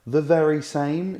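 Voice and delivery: high, slow, loud and smug; obnoxious American Wendy. Retold or imitated. Friend imitates Wendy's obnoxious American line, high and smug. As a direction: lay the precocious snootiness on thick. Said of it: "said things like".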